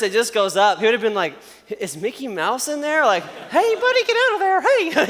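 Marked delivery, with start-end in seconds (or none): 1.8-3.0 squeaky high voice. Retold or imitated. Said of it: "I have a little bit of a high voice". 3.5-5.1 much higher, laughing squeak; squeaky nervous voice. Retold or imitated. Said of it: "I have a little bit of a high voice to begin with".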